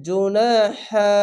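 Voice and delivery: ইউসল্লু slow, the vowel held one beat; one-beat stretch. Shown as a demonstration. Teacher reciting for the class, slow stretched reading. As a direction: draw out ইউসল্লু slowly. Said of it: "এক আলিফ টেনে পড়বেন".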